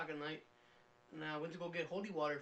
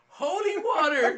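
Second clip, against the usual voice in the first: loud, slow and higher yell; 10 semitones higher, 15 dB louder, slower than usual. Retold or imitated. Face to the wall, yelling at the cops, loud. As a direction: shout it with the jug held up. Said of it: "I just kept yelling".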